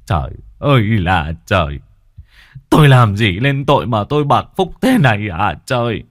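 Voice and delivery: loud, despairing cry to heaven; anguished lament. A narrator's reading. The grandfather cries out to heaven over his cursed fate. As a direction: wail at the sky in grief. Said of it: "than thở".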